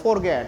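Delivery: Forget said the Indian way, with a tapped r; wrong forget. Shown as a demonstration. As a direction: Forget as "फॉरगेट". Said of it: "इसे हम basically क्या बोलते हैं?". (forget का गलत उच्चारण)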